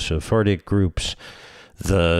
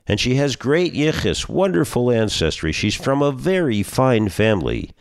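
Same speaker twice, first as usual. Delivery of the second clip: higher, eager salesman voice; eager matchmaker; 5 semitones higher than usual. Acted. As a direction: pile on the selling points.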